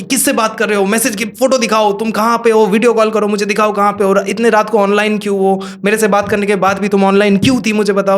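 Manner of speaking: put-on insecure boyfriend. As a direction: fire off questions like a suspicious boyfriend. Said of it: "इंसिक्योर्ड होते हैं लड़के लोग".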